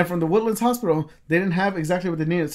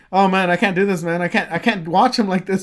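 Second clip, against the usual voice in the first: higher, louder overwhelmed protest; retold distress; 4 semitones higher, 5 dB louder than usual. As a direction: act out a friend who can't cope. Friend panicking and quitting, retold.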